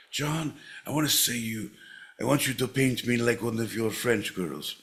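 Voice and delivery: lightly voiced clown; a hint of mock clown delivery. Podcaster mocking his coach's directions, light clown voice. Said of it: "Now say it like a clown".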